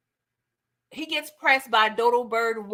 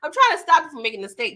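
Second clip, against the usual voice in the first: fast, louder insistent retelling; rushed urgent repeat; 5 dB louder, much faster than usual. Retold or imitated. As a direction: rattle it off pressing the point. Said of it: "He was like".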